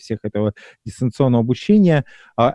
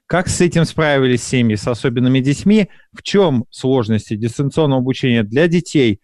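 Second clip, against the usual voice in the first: measured radio presenter's introduction; programme intro read. Acted. Radio host opens a programme on distance learning, presenter's read. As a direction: read out the show's topic and questions.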